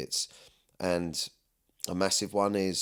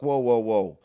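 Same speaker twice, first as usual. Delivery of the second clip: calming whoa; 4 semitones higher, 8 dB louder, slower than usual. Retold or imitated. Calming his moody wife.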